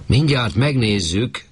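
high, slow call down from the chimney; drawn-out call from up on the roof. A narrator's reading. Chimney sweep calling down to Anna from the roof, high and slow. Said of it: "kiabált le Bátori úr".

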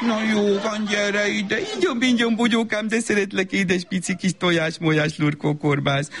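mother cooing after a scolding; making-up baby talk. Acted. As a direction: soothe the child with silly pet names. Mother makes up with toddler.

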